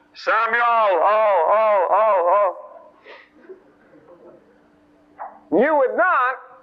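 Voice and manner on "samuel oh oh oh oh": eerie, spooky ghost voice, very slow, drawn-out. Showing how a voice calling in the night could sound: spooky voice. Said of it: "the voice sounded like this".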